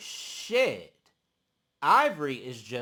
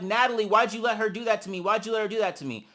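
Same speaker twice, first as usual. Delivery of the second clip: fast, raised mock protest; hurried, aggrieved retelling; retold complaint; 5 semitones higher, 3 dB louder, faster than usual. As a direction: imitate her pleading for an explanation. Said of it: "she's also like".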